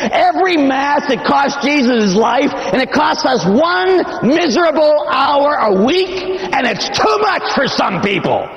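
high, shouted preaching; fiery preaching. Real, not acted. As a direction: hammer the congregation with it. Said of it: "preaching at full force".

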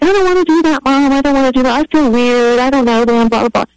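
put-on high whining child protesting; whiny bratty kid. Daughter imitates her childhood self whining at mom, high whiny protest. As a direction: whine it like a stubborn kid refusing an errand. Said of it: "I was a little brat, I'd be like".

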